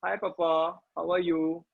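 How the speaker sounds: put-on little kid greeting papa; playful imitation of a baby-faced kid. Shown as a demonstration. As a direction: talk like a small child to Dad. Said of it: "talk like a baby face".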